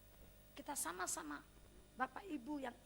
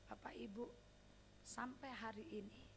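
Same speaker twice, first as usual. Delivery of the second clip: whispered address; 5 semitones lower, 14 dB quieter than usual. Real, not acted.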